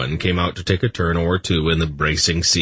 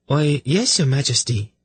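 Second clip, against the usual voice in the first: very high, sweet female voice; high-pitched, politely innocent messenger; chirpy lady; 9 semitones higher than usual. Acted. Lady offering a drink to sufferers, sweetly chirpy. Voices Prala teasing the king.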